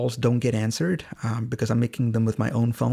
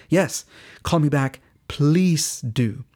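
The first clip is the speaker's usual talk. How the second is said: imitated keen request, higher on "call me back"; emphatic plea; 3 semitones higher, 3 dB louder, much slower than usual. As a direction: urge it earnestly, leaning on "Please". Patient pleads for a call back.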